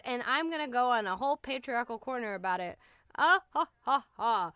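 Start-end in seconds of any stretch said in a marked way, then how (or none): 3.2-4.5 mock laugh. Mock laugh after patriarchal joke.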